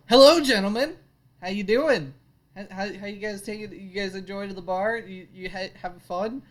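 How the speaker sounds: a rogue greets scowling thugs with fake cheer; cheery greeting. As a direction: play it chummy and bright. Player greets thugs in character.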